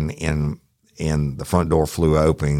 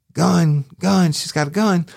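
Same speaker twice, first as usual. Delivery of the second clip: radio alarm; 14 semitones higher than usual. Retold or imitated. Cop retelling his alarm call to dispatch. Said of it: "I said".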